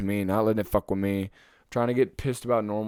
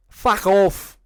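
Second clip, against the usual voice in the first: angry shout; 8 semitones higher, 7 dB louder than usual. Real, not acted. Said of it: "I'll say it right here".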